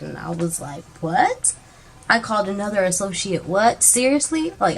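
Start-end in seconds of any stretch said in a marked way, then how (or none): 1.0-4.5 stunned disbelief. Retold or imitated. Shocked at being accused.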